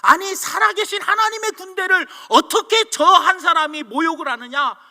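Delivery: acted disbelieving outrage; retold indignation. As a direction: protest as an appalled young David. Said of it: "기가 찬 거예요".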